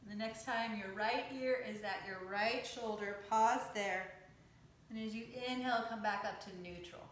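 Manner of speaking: calm, measured yoga teacher's cueing; guided yoga meditation. Acted. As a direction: guide them through breath and stretch, unhurried, with pauses. Leads yoga breathing and stretches.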